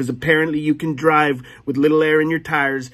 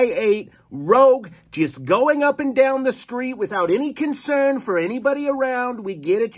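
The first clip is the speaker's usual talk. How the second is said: lightly voiced fussy lawyer, higher; mock lawyer; 3 semitones higher than usual. Mock lawyer Carrie warns the golfer, a touch higher. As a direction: play a prim lawyer reading a warning.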